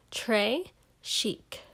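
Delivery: Très chic whispered in French, tray sheek. Shown as a demonstration. Girl teaching the listener French, whispered. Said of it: "You say it like this".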